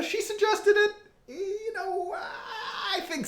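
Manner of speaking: high, laughing, breaking into giggles. Real, not acted. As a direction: crack up mid-sentence. Laughing while crediting the dog.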